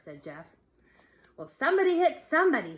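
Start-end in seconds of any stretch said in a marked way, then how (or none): 1.4-2.8 high, loud, fast excited shout. A narrator's reading. Girl urging the fight on, fast excited shout. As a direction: egg them on, fast and eager. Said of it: "shouted Lori".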